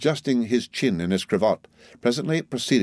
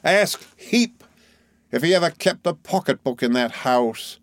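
Micawber; 6 semitones higher than usual. A narrator's reading. Micawber challenges Heap.

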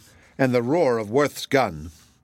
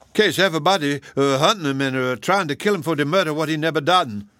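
higher, halting Southern dialect; aggrieved old cook; 4 semitones higher than usual. Acted. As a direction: plead your innocence haltingly.

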